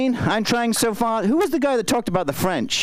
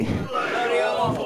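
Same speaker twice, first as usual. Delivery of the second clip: slow demo; 2 semitones higher, slower than usual. Shown as a demonstration. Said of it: "Can I get a bloody awful".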